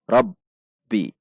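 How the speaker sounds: "Rabbi" terhenti mendadak pada b; langsung berhenti. Shown as a demonstration. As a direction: tahan rapat b lalu lepas "bi" dalam "Rabbi". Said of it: "maka dibaca langsung berhenti". (ba tasydid "Rabbi" terhenti)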